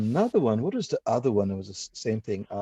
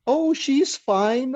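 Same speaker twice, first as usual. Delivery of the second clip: mock scammer reply; 13 semitones higher, much slower than usual.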